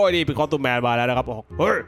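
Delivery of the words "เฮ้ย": put-on character voice, taken aback; Costume Man. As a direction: play a startled pal confronting a friend. (เสียงสวมบทตัวละคร ตกใจถามเพื่อน)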